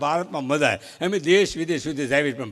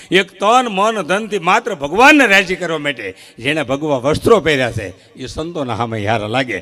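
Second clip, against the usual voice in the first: rising orator; 2 semitones higher, 7 dB louder than usual. Acted. Building praise of saints.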